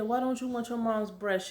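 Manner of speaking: retold question in a high, quiet voice; imitated nurse. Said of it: "Jamaican or African, whichever one".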